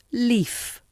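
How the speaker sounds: leaf with a light L, tongue tip on mouth roof; clear L. Shown as a demonstration. Teacher gives examples, leaf with a clear L. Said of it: "The clear L used before a vowel".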